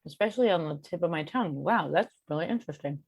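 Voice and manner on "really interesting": mouth full. Real, not acted. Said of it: "Sorry, I'm talking with my mouth full".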